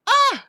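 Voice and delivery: long, drawn-out "ah" of dismay; exasperated groan. Retold or imitated. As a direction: groan as if reliving a disaster. Reliving panic at lost saxophone.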